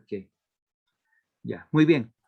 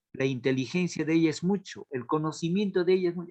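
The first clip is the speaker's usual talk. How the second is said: quick plain rephrasing; 2 semitones higher, faster than usual. Shown as a demonstration. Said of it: "Ese es denotativo".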